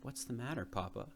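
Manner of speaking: a touch of anxiety, asking quietly; small worried voice to his father; anxious. Acted. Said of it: "I asked him anxiously".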